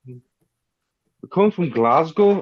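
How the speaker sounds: slow soft Edinburgh accent; a soft posh Scottish accent, slowly. Shown as a demonstration. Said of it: "my Glasgowy Edinburgh accent".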